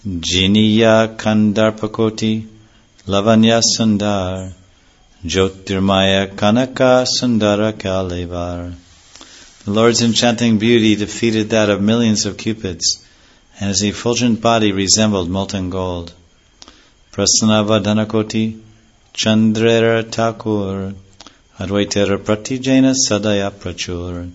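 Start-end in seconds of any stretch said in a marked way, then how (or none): 0.1-8.7 slow, louder chanted recitation of sacred verse. Acted. Reciting Bengali scripture verses. 17.1-24.3 verse recitation. Acted. Reciting Bengali scripture verses.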